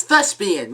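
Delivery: thespian said slowly with a clear TH; slow, pointed thespian starting on TH; careful enunciation. Shown as a demonstration. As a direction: spell out thespian by ear, TH not L. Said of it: "with a T H, not an L".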